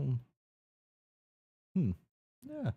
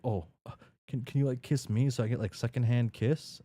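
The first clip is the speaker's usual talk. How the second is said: higher, louder put-on girl voice; pleading girl; 6 semitones higher, 4 dB louder than usual. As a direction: ask as the flustered, eager girl. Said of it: "She's like".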